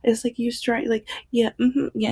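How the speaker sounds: a hint of the knowing shop lady; lightly voiced woman who knows what I buy; knowing shopkeeper. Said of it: "she was just like".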